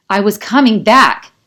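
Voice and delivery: loud, slow cry that cracks on the last word; he's desperate to be believed; anguished shout turning raspy; raspy outburst. A narrator's reading. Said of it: "Kai's voice turns raspy on that final word".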